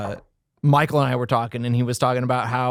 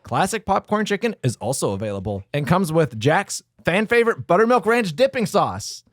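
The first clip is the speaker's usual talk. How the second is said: measured promotional read; announcer-style product read. Acted. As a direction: read the menu copy out deliberately. Reads food promotion copy.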